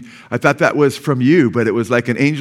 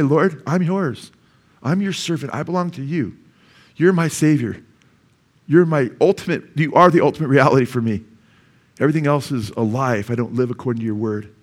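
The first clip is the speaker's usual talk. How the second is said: sincere prayer. Retold or imitated. Preacher recalling his vow, sincere prayer. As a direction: pray it as full surrender. Retold devoted prayer to God.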